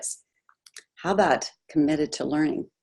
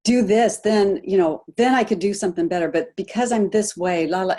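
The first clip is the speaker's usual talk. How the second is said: self-blaming. Retold or imitated. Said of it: "and you're blaming yourself".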